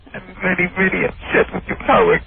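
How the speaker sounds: bad Indian impression. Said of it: "a worse impressionist than Jackie".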